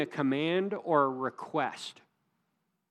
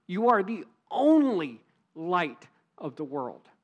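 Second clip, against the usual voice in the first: "only" pressed hard and louder; stress on only; 4 dB louder than usual. Shown as a demonstration. Preacher repeats the point to the congregation, hitting "only". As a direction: hit "only" in the light line too. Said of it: "if we translated it better into English".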